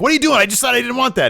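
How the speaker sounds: imitating a fed-up, high-pitched complaint; retold exasperation. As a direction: squawk it in indignant disbelief.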